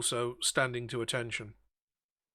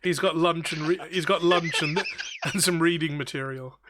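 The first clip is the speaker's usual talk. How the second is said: laughing; 4 semitones higher, 8 dB louder than usual. Real, not acted. Laughing at sausage joke.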